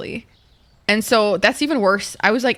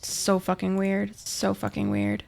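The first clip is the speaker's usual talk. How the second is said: muttered disgust; 6 dB quieter, slower than usual. Real, not acted. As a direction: say it under your breath, slow and appalled.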